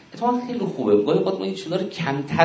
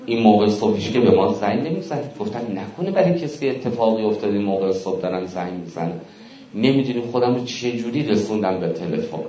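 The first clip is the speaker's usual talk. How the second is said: wife's long-winded answer. Retold or imitated.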